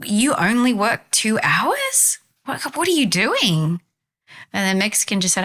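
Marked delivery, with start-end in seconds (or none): 0.0-3.8 mock angry tourist. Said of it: "the American tourist reacts kinda angrily".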